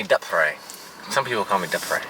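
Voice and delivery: Dupre said as "DUP-ray", short first vowel; mispronounced name. Retold or imitated. Husband quoting how people say Dupre, short u. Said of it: "Someone used to call me".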